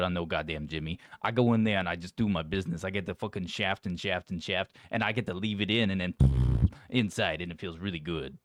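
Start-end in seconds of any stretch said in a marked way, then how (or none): 6.2-6.7 short loud mouth noise, pitched low; crude sound effect. Acted. Co-host illustrating a bawdy boast, crude mouth noise.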